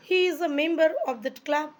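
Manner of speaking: slow, careful model sentence; slow example sentence. Shown as a demonstration. Teacher models an English sentence for students, slow and careful. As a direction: read each word out clearly and slowly. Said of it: "সে ওই ক্লাবের একজন মেম্বার".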